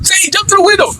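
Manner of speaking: high shouted repeat of the call; retold shout. Teens calling their friend through the car window, shouting. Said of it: "we'd be like".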